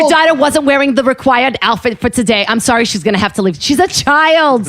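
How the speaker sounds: high, hammed-up New York Jewish dance instructor; New Yorkie Jewish accent. Dance teacher dismissing a child's mother, hammed-up New Yorkie accent. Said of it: "You did a Jewish accent".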